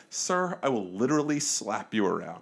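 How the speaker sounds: measured, courteous warning; polite threat. Retold or imitated. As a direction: deliver the threat politely and evenly. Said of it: "like, I was polite".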